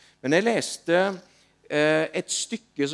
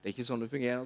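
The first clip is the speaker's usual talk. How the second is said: polite; 5 semitones lower, 9 dB quieter, much faster than usual. Retold or imitated. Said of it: "veldig høflig, fint".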